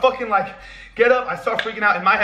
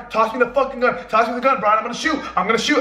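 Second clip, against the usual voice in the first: retold urgent demand; 5 semitones higher than usual. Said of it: "trying to get on my Brian".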